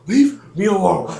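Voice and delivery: high, loud mock complaint; imitating annoyed coworker. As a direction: whine like a pestered coworker. Imitates annoyed coworker being pestered.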